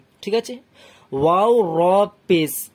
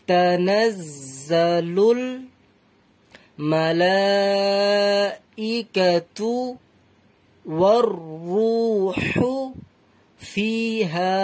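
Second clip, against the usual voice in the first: extremely slow, drawn-out Quran recitation; very unhurried recitation with long breaks between words; even slower recitation; much slower than usual. Shown as a demonstration. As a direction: linger on every syllable and long vowel. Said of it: "আরো ধীরে ধীরে পড়তে পারেন".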